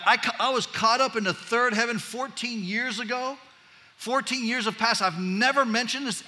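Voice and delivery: playful mock bragging that drops off at the end; teasing. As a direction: dangle the secret, then withhold it. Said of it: "It's like he's teasing us here".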